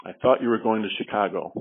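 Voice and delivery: thought stressed with a falling pitch. Shown as a demonstration. Trainer demonstrating emphasis on thought to class. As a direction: lean on the word thought. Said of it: "each sentence had the word highlighted".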